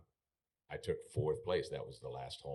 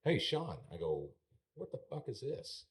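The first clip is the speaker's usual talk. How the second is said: higher, louder, indignant complaint to the boss; a mock-furious rant, higher and louder; retold angry outburst; 6 semitones higher, 3 dB louder than usual. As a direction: demand answers from the man who fined you. Retold confronting the rodeo boss.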